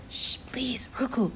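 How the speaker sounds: soft breathy hush; whispered shush. A narrator's reading. The narrator hushes the hungry child in the graveyard, whispering. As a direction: hush the child without a sound. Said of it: "I whispered".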